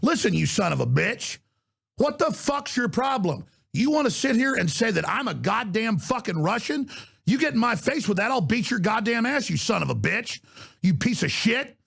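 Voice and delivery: real fury spilling out at a congressman; furious rant. Real, not acted. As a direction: lay into him, boiling over. Cursing rant at Schiff.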